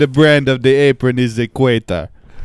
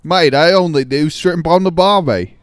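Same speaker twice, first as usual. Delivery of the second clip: put-on Australian accent; 3 semitones higher than usual. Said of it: "Australian, oh, come out here".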